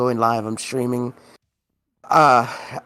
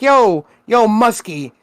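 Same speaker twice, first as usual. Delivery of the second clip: half-joking impression of a rich neighbor offering coffee; weird Elon voice; 3 semitones higher than usual. Friend imitates the billionaire neighbor inviting him over, mock accent. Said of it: "This is fucking weird Elon voice".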